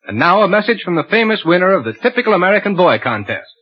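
upbeat sponsor ad read; old radio announcer. Acted. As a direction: sell it like a radio ad.

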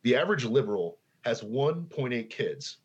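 slowly spelled out, stress on "average"; over enunciating. Shown as a demonstration. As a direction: say "The average liberal has one point eight kids" slow and deliberate. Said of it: "Let me repeat that slowly".

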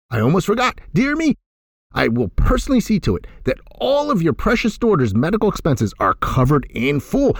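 high, excited benefactor; giddy Scrooge. Acted. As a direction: overflow with kindness. Ebb giddy generosity to Bob.

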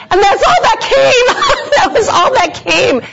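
laughing. Real, not acted. Telling the ladies her simple answer, laughing. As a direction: let it spill out in laughter.

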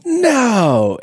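high, loud shocked yell. Retold or imitated. Wife reacting to the two hundred dollar price, loud no. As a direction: belt out a flat refusal. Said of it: "she yelled".

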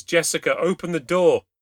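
high, loud urgent order; desperate shout. A narrator's reading. Mother pounding with both hands on the door, desperate shout. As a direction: shout it through the door to a child.

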